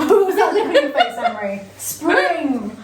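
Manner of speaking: laughing through the words. Real, not acted. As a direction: giggle while asking. Laughing at friend's face.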